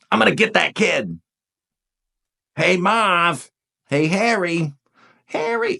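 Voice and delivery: lightly imitated movie crook from Home Alone; Joe Pesci. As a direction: play a hint of a New York burglar calling his partner. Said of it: "I just see a little Joe Pesci, you know, in Home Alone".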